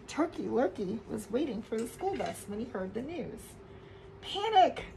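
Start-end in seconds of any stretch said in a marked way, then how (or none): 4.2-4.8 high loud cry of Panic; shouted panic. A narrator's reading. Narrator shouting the panic to children. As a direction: burst out with alarm.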